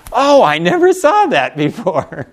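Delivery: like a light has just come on; sudden realization. Retold or imitated. Reader finding something new in a verse, slow amazed oh. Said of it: "and we're going".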